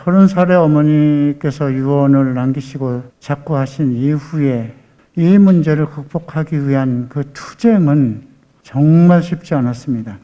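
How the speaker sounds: normal talking voice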